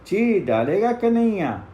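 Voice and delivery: put-on boys' threat shouted into the forest; threatening call. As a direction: warn them loudly that Kanhaiya will tear them apart. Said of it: "फिर कहा".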